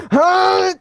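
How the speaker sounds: high, baffled huh; a puzzled squeak of disbelief; confused huh. Retold or imitated. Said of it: "kinda went like".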